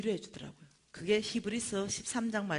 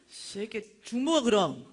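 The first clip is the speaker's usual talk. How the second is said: charismatic tough mom; 3 semitones higher, 6 dB louder, slower than usual. Retold or imitated. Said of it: "우리 유진이가 카리스마 짱이래".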